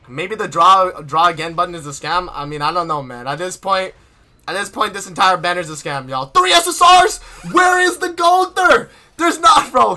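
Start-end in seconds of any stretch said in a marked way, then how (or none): 6.3-9.7 high, loud and slow, disbelieving; stunned disbelief. Real, not acted. Streamer sees a bad pull result on stream, stunned. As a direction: react as if you can't believe it.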